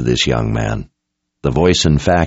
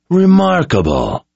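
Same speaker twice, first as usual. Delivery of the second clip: drawled; 12 semitones higher than usual. Acted. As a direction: stretch it out, amused and condescending. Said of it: "Nicholas drawled".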